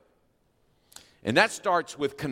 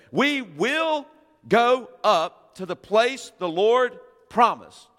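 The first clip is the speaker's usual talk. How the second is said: high, louder, slow declaration; eager vow; 8 semitones higher, 5 dB louder, slower than usual. Acted. Israelites vowing to go up, high and loud. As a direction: proclaim it like a rash promise.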